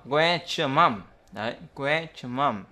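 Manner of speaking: "where's your" fused with a heavy zh; âm giờ nặng. Shown as a demonstration. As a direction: blend S and Y of "where's your" into one sound. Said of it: "nó phát âm thành âm giờ nặng". (đọc "where's your" nối thành âm giờ nặng)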